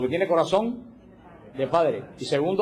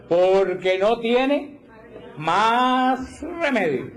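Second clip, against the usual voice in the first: mock resigned sigh; 5 semitones higher, much slower than usual. Mocking a resigned person.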